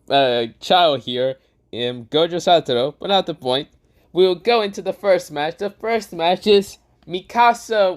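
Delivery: high, slow showman voice; Gojo voice. Acted. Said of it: "Gojo says".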